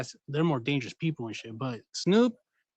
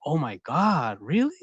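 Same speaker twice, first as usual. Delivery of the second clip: imitating a staged gasp of surprise; mock shocked. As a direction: act stunned for show. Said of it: "they were like".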